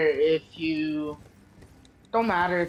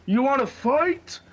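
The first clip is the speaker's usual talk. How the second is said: higher, louder mock challenge; pool kid; 9 semitones higher, 5 dB louder than usual. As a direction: taunt like a kid picking a fight. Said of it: "then was like".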